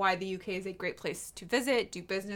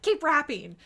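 louder, higher mock order; snapping demand; 8 semitones higher, 9 dB louder than usual. Bystander ordering Kate back to the gift wrapping, snapping. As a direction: snap it out like an impatient onlooker. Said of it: "snapped her and was like".

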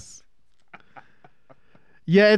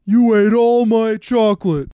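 loud, high wail of cake-starved despair; mock wail; 6 semitones higher, 6 dB louder, slower than usual. Lamenting the Fat Boys eating all the cakes, mock wail. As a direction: wail it slowly, hammed up like a tragedy.

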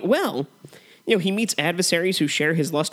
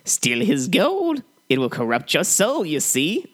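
hammy stage actor; slower than usual. Acted. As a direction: ham up the curse like a stage villain. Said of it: "we'll quote this film back and forth".

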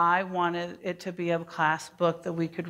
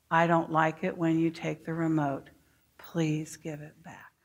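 calm, even voice, softening at the end; gently firm teacher demo; calm assertive child line; 2 semitones lower than usual. Shown as a demonstration. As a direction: model the calm way to ask. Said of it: "Everyone say that with me".

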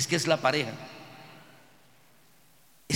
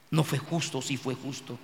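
pensive self-questioning; 5 semitones lower, 6 dB quieter than usual. Acted. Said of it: "se pone a pensar".

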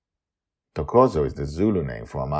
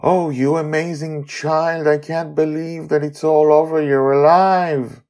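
higher, loud tender joy; Amali, moved; 12 semitones higher, 10 dB louder than usual. Acted. Amali hugging Charlie, higher joyful voice. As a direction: hug him with your voice.

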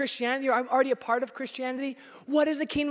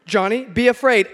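louder, ordering himself; mock command; 8 dB louder than usual. Pastor mocking himself commanding fear on the freeway. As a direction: bark a self-command for laughs. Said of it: "you don't go".

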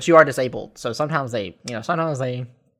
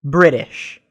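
louder, falling incredulous repeat; emphatic disbelief; 7 dB louder than usual. Real, not acted. Hearing about British nurses in Georgia, loud falling disbelief. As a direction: punch it like you can't believe it.

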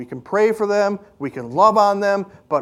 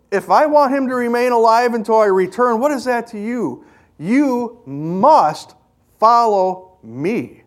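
Jesus speaking firmly; 5 semitones higher than usual. Acted. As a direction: say it like a final word. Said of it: "Jesus answered him and said".

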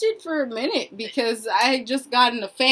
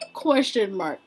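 whispered aside; 4 semitones lower, 6 dB quieter than usual. Real, not acted. To her friend, a dry whispered punchline. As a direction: whisper it deadpan.

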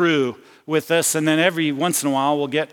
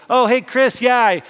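higher, louder call-out with a laugh; mock yell across the line; 6 semitones higher, 4 dB louder than usual. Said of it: "he yells, kinda yells out to me".

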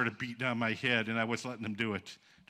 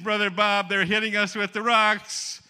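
raised, high-pitched, drawn-out protest; alarmed complaint; 8 semitones higher, 7 dB louder, slower than usual. Retold or imitated. Young man protesting to Brother Bob, loud alarmed complaint. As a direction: complain loudly to your leader.

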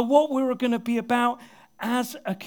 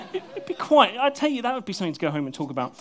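laughing; faster than usual. Real, not acted. Joking about turning Brummie.

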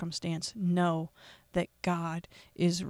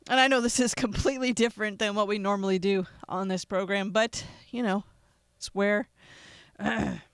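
emotional outburst; 5 dB louder than usual. Real, not acted. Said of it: "apologize for getting so emotional".

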